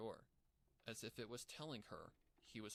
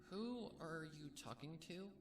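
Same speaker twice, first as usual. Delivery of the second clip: higher, slow puzzled question; confused; 6 semitones higher than usual. Acted. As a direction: ask it slowly, baffled. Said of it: "Bellamina asked, confused".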